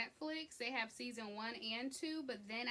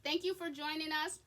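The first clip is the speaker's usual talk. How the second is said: ice in mouth; 5 semitones higher, 3 dB louder than usual. Real, not acted. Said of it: "I have ice in my mouth".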